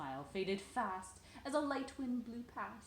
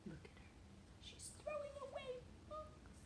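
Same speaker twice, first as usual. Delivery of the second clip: hushed aside; 7 dB quieter than usual. Real, not acted. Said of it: "aside to child".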